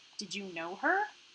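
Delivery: ordinary delivery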